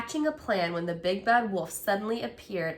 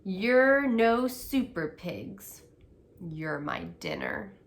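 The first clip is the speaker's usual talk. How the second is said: menacing wolf; slower than usual. Acted. Wolf threatens the trapped pigs.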